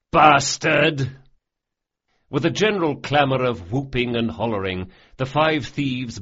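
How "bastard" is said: loud, higher rowdy bellow; cheering shout. A narrator's reading. Thieves hollering back at Bug's cheeky toast. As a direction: holler it in delight.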